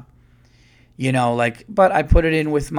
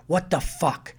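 imitated exasperated outburst, pitched up; higher-pitched retold indignation; mock freak-out; 5 semitones higher than usual. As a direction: mimic a fed-up traveler without shouting. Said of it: "she's, like, freaking out".

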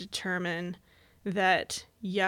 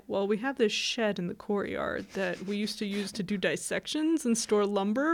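offhand school official. Retold or imitated. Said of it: "the school's like".

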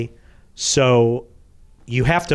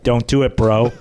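a firmer, louder don't do it; louder deadpan warning; 7 dB louder than usual. Retold or imitated. Shaq warning the PR man a third time, louder. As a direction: third and final flat refusal. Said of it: "He's like".

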